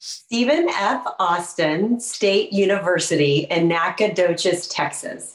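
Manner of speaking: spelled out slowly; slow careful repeat of the school name. Shown as a demonstration. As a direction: say each name clearly and slowly. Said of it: "say the name of the school one more time, a little slower".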